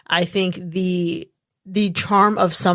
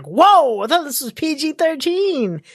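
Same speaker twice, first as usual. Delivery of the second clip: surprised exclamation; 7 semitones higher than usual. Retold or imitated. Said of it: "We're like".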